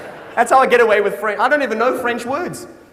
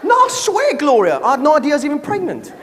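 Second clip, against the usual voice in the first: panda's excuse; 3 semitones higher, faster than usual. Pretend. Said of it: "Can you imagine the panda".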